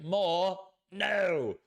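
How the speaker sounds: high, incredulous mock outburst; outraged meme master. Man answers the guy with the bowl, mock outrage. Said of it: "And he's like".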